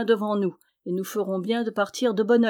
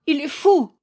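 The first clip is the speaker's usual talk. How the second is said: sobbing wail; 7 semitones higher, 6 dB louder than usual. A narrator's reading. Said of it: "elle pleurait à sanglots".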